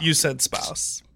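soft whispered aside; whispering. Real, not acted. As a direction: whisper it slowly.

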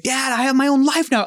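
high-pitched imitated teenage protest; mock yelling. Son arguing with his dad Goofy, mock yell. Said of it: "he's yelling at him".

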